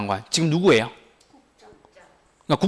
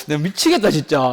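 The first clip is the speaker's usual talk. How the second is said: laughing in disbelief. Real, not acted. Teacher laughs at student's answer.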